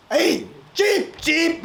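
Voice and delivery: very high squeaky protest; indignant chick. Acted. Chick protesting to the cow that covered it in dung, very high.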